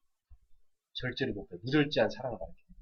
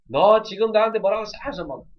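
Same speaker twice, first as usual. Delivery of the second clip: higher, louder, slow mock scolding; mock angry parent; 8 semitones higher, 8 dB louder, slower than usual. Parent blowing up at a rude child, mock angry. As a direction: ham up the parent losing their temper. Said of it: "흥분하지 마세요".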